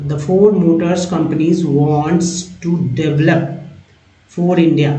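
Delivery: very slow, drawn-out word-by-word reading; slow model reading. Shown as a demonstration. Teacher modelling English text for Hindi-speaking learners, slow and deliberate. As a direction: stretch each word out for learners.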